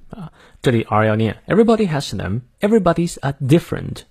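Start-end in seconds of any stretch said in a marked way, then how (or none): 1.5-4.0 British demo, pitched higher; British accent. Shown as a demonstration. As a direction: model it in British English for learners. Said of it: "我们来看一下英式发音".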